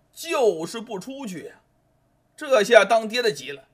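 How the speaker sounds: ordinary delivery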